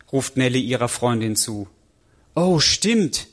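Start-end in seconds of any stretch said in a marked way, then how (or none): 2.3-3.3 horrified. Acted. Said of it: "antwortet die entsetzt".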